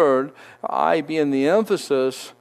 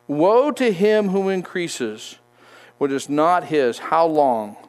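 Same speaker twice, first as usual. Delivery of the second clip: lifted, measured reading of the woes; scripture reading. Acted. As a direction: proclaim the verses with weight. Reads scripture aloud.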